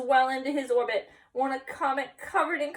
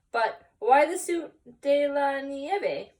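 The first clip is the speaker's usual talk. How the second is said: curious dog voice; 5 semitones higher, 6 dB louder, slower than usual. Acted. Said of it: "asked Don Diego".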